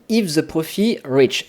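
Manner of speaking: slow English with a French accent. Real, not acted. Tutor reading an English button label to viewers, French-accented English. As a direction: read the English slowly, in a real French accent. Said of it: "désolé pour mon accent anglais".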